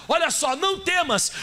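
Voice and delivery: the angel of God scolding a weeping Agar; angel rebuking Agar. Acted. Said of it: "Olha o que ele falou pra Agar".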